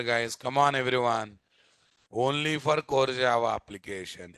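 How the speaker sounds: ordinary delivery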